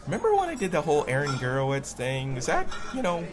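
retold morning-after hesitance; sheepish. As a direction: ask gingerly, feeling out the reaction. Sheepishly asks wife next morning.

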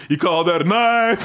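mock effortful Australian accent; mimicked Australian attempt. Host teasing the guest's attempt, mock Australian accent. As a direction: throw the head into an Australian "knife". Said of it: "the way you throw your head".

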